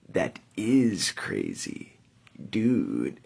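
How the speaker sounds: slow, flat forced reply; awkward deadpan. Retold or imitated. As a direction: say it dry and slow, a bit put-on. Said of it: "I am forced to respond with".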